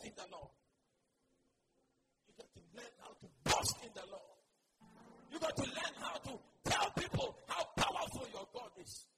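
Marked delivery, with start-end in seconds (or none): 2.3-4.3 hurried, half-whispered restatement; quicker, breathy repeat. Shown as a demonstration. Preacher repeating the lesson to the church, quicker and breathier. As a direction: rush the repeat under your breath.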